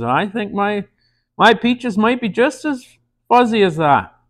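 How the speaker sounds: high, strained near-crying voice; mock-weepy voice cracking high; tearful farmer. A tear comes out of his right eye.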